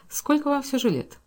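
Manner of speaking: plain reading voice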